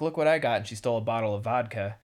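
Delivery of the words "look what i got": voicing Tori. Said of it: "she's like".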